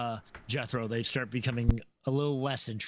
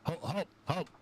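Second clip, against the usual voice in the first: Jethro intervening. Acted. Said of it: "Jethro comes up ... and goes".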